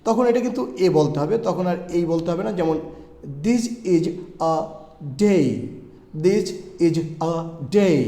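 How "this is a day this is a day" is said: word by word, "a" said as a short ah; slowly, pausing before a long "day"; article A as "ah". Shown as a demonstration. Teacher shows the article against the letter, slow separated words. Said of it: "এখানে কিন্তু আমি আ বলেছি".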